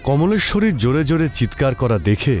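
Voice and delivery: usual speaking voice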